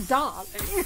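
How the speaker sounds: light imitation of an Aussie darling; drawn-out Australian darling, copying a game character; Australian accent. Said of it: "this Australian accent".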